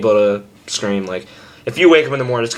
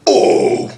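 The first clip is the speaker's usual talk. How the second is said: scream without voice; 4 dB louder than usual. Shown as a demonstration. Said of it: "not his actual voice where it's like".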